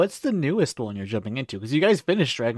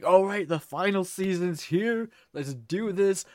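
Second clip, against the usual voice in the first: higher-pitched, imitating past excitement; mock hyped-up self, pitched up; all hyped; 5 semitones higher, slower than usual. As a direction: act out being pumped up to start. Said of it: "like, all hyped".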